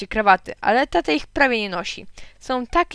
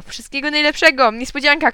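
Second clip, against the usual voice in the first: high, loud birthday cry; excited shout; 6 semitones higher, 6 dB louder than usual. A narrator's reading. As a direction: burst out with the surprise. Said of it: "krzyknąłem".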